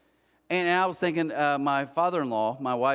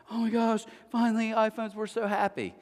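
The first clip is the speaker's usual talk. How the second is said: mock-excited kid voice, pitched up; 4 semitones higher than usual. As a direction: imitate kids delighted with a new gift. Acting out kids' delight at gifts.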